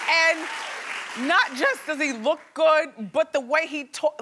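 slow, dreamy swoon over a handsome man. Real, not acted. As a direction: savor each word like a crush.

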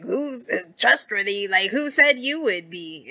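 a touch of wounded pride; imitating Bogart, lightly offended. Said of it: "Now Bogart's all offended".

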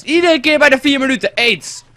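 fed-up streamer yelling at the recording crashing again; frustrated outburst. Real, not acted. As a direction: blow up at the software freezing. Recording freezes again mid-story.

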